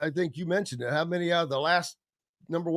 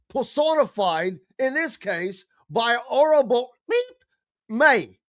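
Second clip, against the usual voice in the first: a lightly higher, put-on movie villain delivery; movie quote; 5 semitones higher than usual. Quoting a movie line to his friend in a put-on voice. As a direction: recite it like a menacing film speech. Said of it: "You did that well".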